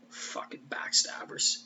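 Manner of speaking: slow, whispered backstabbers; whispered insult. Retold or imitated. Spike muttering at the Scoobies, slow whisper. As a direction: hiss it under your breath.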